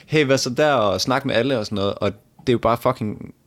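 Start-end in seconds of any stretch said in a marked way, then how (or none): 0.0-0.7 a lightly voiced upbeat "Hey, hvad så der?"; extrovert greeting. Describing extroverts, light cheerful greeting. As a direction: toss off a breezy hello. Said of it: "at en ekstrovert bare kan".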